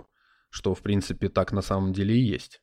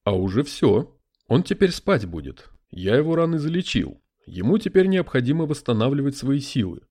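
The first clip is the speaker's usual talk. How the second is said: spirit voice; 3 dB louder than usual. Acted. Spirit in a crystal ball.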